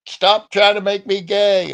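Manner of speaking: high-pitched, drawn-out mock scream. Retelling a friend's regular outburst, mock scream. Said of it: "She's also screaming".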